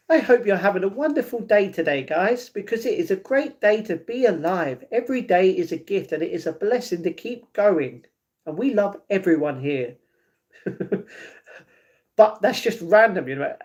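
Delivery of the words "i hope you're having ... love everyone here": put-on mildly affected British accent, easing softer towards the end; put-on dapper British. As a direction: lightly play the gracious British well-wisher. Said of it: "the more I talk like that".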